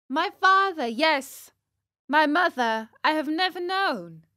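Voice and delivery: high, loud little marionette voice; earnest high-pitched child character; puppet boy answering. Acted. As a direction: pipe up like a wooden boy. Pinocchio answers in his puppet voice.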